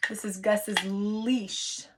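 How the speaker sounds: "leash" said slowly to show the vowel; slow and clear for young learners; slow teaching read. Shown as a demonstration. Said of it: "Does that have a long vowel?".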